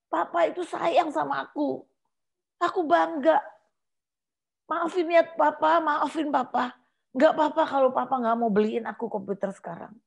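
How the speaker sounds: a lightly voiced child pleading with papa. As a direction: beg your dad's forgiveness like a sorry kid. Child apologising to father.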